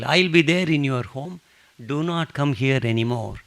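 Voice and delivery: a touch of a saint's firm promise; emphatic insistence. Retold or imitated. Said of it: "he says emphatically".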